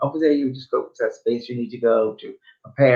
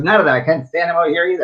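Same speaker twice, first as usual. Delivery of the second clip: mock irritated; 5 semitones higher, 4 dB louder, faster than usual. Mother snaps from spirit side.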